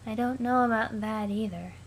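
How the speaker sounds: lifeless, monotone Aradia; flat as if long dead. Acted. Aradia asks Sollux about teams, in a dead monotone. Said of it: "that's how I'll be reading Aradia".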